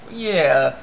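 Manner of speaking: drawn-out unconvinced reply; acted disbelief. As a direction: imitate someone not buying it. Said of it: "you could tell she didn't believe that".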